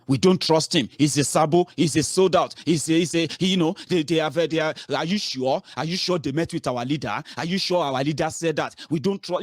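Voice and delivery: hammed-up parody of suspicious followers; mocking online critics. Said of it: "they took over the social media".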